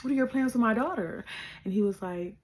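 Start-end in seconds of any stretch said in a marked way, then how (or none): 0.0-1.2 mock sweet mother asking; mom's voice. Mom greeting her daughter's boyfriend, high and sweet. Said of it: "she was like".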